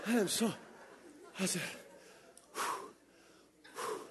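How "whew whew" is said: soft, breathed-out whew; sigh of relief. Retold or imitated. Driver just missed by a car, relieved exhales. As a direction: blow out air in relief, twice. Acted relief after near miss.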